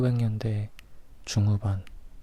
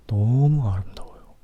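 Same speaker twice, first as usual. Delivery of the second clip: gushing admiration; 6 dB louder than usual. Real, not acted. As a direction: swoon out loud over her beauty. Gushing over the actress. (감탄하며 크게)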